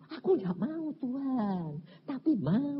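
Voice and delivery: high, softish reluctant plea; mock whining. Preacher answers God about his weakness, mock whining. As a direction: whine it upward, torn between no and yes.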